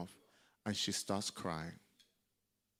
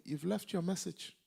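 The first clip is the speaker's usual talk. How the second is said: high, pointed reproof; scolding mother figure; 8 semitones higher than usual. Retold or imitated. Mentor dressing down the apostle, imitated high scolding. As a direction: imitate her correcting you from above. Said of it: "she'll tell me".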